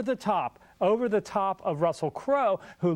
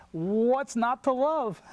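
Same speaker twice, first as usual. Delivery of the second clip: put-on slow, drawn-out Manhattan accent, pitched up; 5 semitones higher, much slower than usual. Critic answering co-host about the clip, hammed-up Manhattan accent. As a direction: stretch it out in your best Manhattan accent. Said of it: "my best Manhattan accent".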